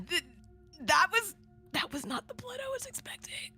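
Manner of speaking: high, stunned disbelief; shocked. Real, not acted. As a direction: squeak out the shock. Shocked by the bloody scene.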